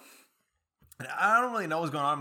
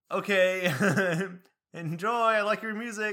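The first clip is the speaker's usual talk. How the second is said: high, louder imitation of a cheery lady; friendly lady; 8 semitones higher, 7 dB louder, slower than usual. Lady complimenting the driver's music, high friendly imitation. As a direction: chirp it as a friendly stranger.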